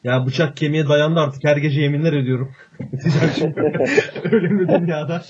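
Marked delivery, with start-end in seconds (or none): 2.8-5.2 laughing. Real, not acted. Laughing at own joke.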